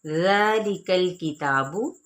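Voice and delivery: slow recitation of ज़ालिकल किताबु; slow tajweed chant; Quran recitation. Shown as a demonstration. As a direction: chant it slowly, lengthening ज़ा. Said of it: "खींचा जाएगा".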